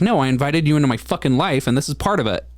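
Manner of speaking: a touch of retold irritation, not truly angry; mimicked anger. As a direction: replay the old fury only lightly. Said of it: "I sound angry already, but I'm not angry. I'm just mimicking that".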